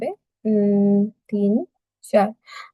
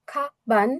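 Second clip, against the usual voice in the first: খা, বান as people say it in haste; quick careless version. Shown as a demonstration. Teacher shows the common slip, খা, বান said quickly. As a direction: run through খা, বান with half-made tones. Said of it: "যখন দ্রুত বলবো অনেকে".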